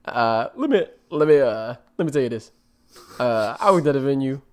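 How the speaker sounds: put-on creaky old man storyteller voice; grandpa voice. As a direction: play a rambling old grandpa. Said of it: "Your grandpa voice is so much more different than mine".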